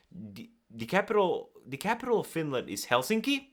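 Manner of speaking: ends Helsinki on an upward question lift; unsure rising end. Shown as a demonstration. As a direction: say it like you doubt yourself, Helsinki rising. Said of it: "I would answer it".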